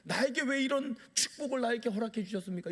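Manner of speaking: a hint of tearful pleading, pitched a little up; mock tearful prayer. A believer at dawn prayer, thanking God for a promotion, in mock tears. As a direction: pretend to weep while praying. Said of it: "막 울면서".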